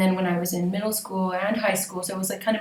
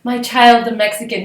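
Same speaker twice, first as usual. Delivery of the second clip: proud mom; 3 semitones higher, 8 dB louder than usual. Retold or imitated.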